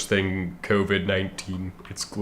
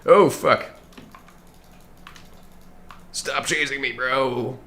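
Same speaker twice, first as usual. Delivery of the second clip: loud high panicked yell; panicked shout; 6 semitones higher, 3 dB louder, slower than usual. Real, not acted. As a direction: cry out while fleeing. Chased by enemies.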